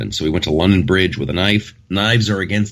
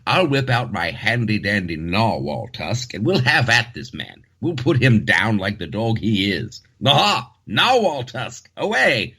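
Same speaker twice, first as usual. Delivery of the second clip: hammed-up upper-class British voice, raised pitch; mock posh British; 3 semitones higher than usual. Imitating a British hero rallying his mate Johnny, in a hammed-up British accent. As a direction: play a jolly British gent charging in with a narwhal tusk. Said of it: "I say".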